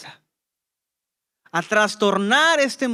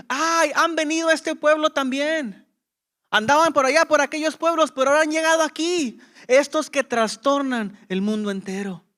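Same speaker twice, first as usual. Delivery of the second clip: higher-pitched imitation of townsfolk crying out; mildly hammed-up cry of complaint, pitched up; mock outcry; 5 semitones higher than usual. Townsfolk complaining that the troublemakers have arrived, mock outcry. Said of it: "gritaban, decían".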